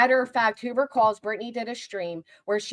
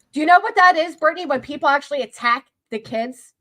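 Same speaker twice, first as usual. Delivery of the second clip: angry raised voice; 4 semitones higher, 3 dB louder than usual. Real, not acted. Confronting Brittany about kids.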